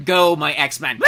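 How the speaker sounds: loud shouted battle cry into a laughing shriek; hammed-up superhero shout; mock Banshee scream. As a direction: scream orders at the team. Imitating Banshee's screaming power.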